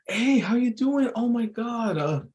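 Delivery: high, oily mock greeting; creepy guy to a woman. Creepy man greeting Cynthia, high hammed-up sleazy voice. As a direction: overdo the sleazy charm. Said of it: "and they're all creepy".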